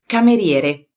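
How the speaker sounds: Cameriere, Italian r rolled, four syllables ka-me-rie-re; Italian pronunciation. Shown as a demonstration. Teacher modelling Cameriere for learners, careful Italian. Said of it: "So let's start".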